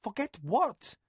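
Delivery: high questioning rise; puzzled echo of her word; lightly voiced bewildered lady; confused. A narrator's reading. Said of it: "in honest confusion".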